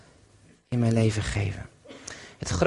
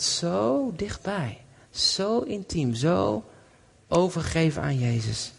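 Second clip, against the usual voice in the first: very slow, higher and tender; 4 semitones higher, slower than usual. Real, not acted. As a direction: linger on each word in awe. Tender climax of the story. (teder en heel langzaam)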